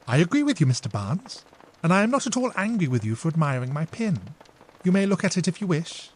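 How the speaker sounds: a hint of a gracious hostess; gracious lady. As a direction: accept the compliment kindly. Emily answers graciously.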